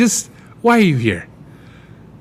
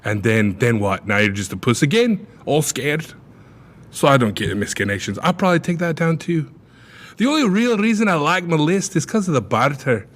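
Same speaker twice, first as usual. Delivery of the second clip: mock Scottish accent. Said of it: "you kinda slipped into a weird accent there".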